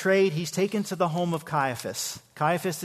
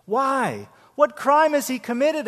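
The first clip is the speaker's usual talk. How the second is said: raised, higher indignant question; Pilate protesting; 8 semitones higher, 5 dB louder than usual. A narrator's reading. Pilate pleads with the crowd, raised and indignant. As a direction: demand it of the crowd, pitched up. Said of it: "asked Pilate".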